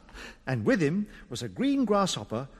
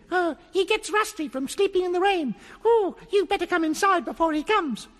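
tree goblin voice; 10 semitones higher than usual. A narrator's reading. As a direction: chirp it like a tiny goblin. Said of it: "said Binklebonk".

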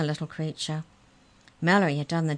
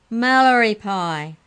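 loud, high, gleeful relish; laughing; 5 semitones higher, 10 dB louder, slower than usual. A narrator's reading. Maury teasing caged Mallory, laughing. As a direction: stretch the joke out slowly with glee. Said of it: "laughed Maury".

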